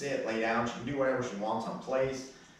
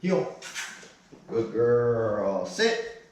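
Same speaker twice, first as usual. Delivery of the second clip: sharp commands; 5 dB louder, much slower than usual. Real, not acted. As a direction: call each command out firmly. Trainer commanding dog.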